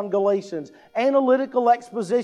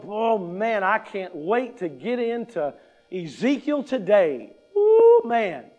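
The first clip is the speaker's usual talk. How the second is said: mock excitement. Preacher mocks a churchgoer eager for Ezekiel, sarcastic glee. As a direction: pretend to be thrilled to read Ezekiel. Mocking an eager Bible reader.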